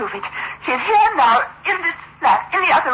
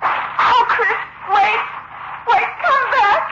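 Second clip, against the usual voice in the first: terrified begging; 4 semitones lower than usual. Acted. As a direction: beg him not to leave. Left alone, terrified, begging.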